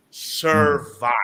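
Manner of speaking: Survive punched loud and falling; stress on survive. Shown as a demonstration. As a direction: hit Survive hard, alone. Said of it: "I stress the word survive".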